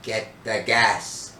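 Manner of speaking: slow, drawn-out tempting order; a hint of a devil on the shoulder, stretching the words; lightly voiced little devil. Little devil urging a boy on, slow temptation. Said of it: "a little devil jumped up on my shoulder and said".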